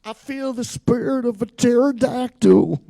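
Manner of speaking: high, loud mystic medium voice; hammed-up psychic channeling a spirit; mock psychic voice. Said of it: "All the psychics over there just went".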